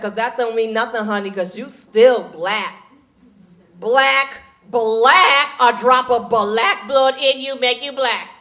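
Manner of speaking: lightly voiced drawn-out pronouncement; insistent sister. Black fan setting comic straight, slow insistent verdict. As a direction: hammer the word "black", stretching it out. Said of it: "She said".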